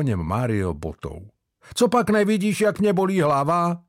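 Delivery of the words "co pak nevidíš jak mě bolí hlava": pained. A narrator's reading. Hungover Mario snapping.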